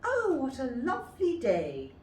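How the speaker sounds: put-on happy child greeting the day; cheerful little girl. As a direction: sing out the joy of the morning. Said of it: "said Little Red Riding Hood".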